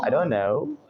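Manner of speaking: "don't" as "don", running into "know"; silent T in don't. Shown as a demonstration. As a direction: say "don't" without its T. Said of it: "डोंट का बन जाएगा डॉन".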